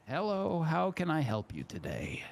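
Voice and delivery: high, singsong shopkeeper greeting; welcoming tailor. Acted. Tailor to a man needing a suit, high welcoming voice.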